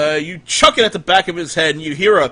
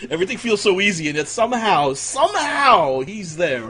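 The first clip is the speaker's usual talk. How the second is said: mock dramatic; 5 semitones higher than usual. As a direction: stretch somehow way up. DM mocks player's complaint.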